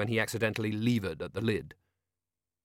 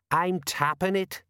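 severe; 9 semitones higher, slower than usual. Acted. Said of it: "said Colin severely".

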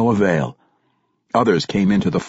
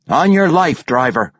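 threatening; 7 semitones higher, 4 dB louder than usual. A narrator's reading. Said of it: "the other halfling said".

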